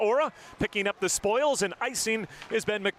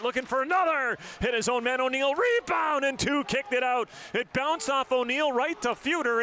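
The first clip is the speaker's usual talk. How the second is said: higher, urgent play-by-play; excited call; 4 semitones higher than usual. Real, not acted. Commentator calling a goalmouth scramble, excited. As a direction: ride the scramble with rising pitch.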